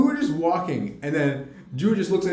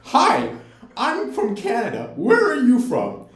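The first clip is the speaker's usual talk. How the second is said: mock loud greeting; 6 semitones higher, slower than usual. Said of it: "saying out loud".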